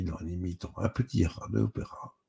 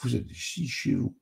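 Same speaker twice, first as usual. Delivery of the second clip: higher-pitched mock gravity; mock solemn; 6 semitones higher, 3 dB quieter than usual. A narrator's reading. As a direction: answer with theatrical, pretend solemnity. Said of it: "lui répond sur le même ton". (faussement solennel, voix plus haute)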